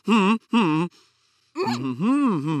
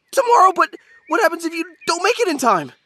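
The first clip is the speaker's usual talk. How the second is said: high, loud, worried question; alarmed question; 11 semitones higher, 6 dB louder than usual. Acted. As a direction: ask it in sudden dismay. Alarmed at the looming deadline.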